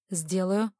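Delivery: brief, businesslike reply; understated, matter-of-fact assent; laconic. Acted. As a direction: answer tersely, without fuss. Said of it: "лаконично ответил лорд Себастьяни".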